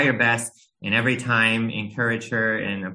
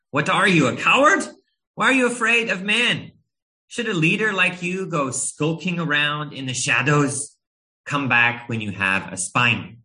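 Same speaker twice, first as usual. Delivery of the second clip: upset, scolding questions pitched high; indignant dressing-down, starting high and easing off; harsh rebuke; 5 semitones higher than usual. Pretend. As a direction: rebuke him harshly for his cowardice. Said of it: "if Jesus reacted harshly like that".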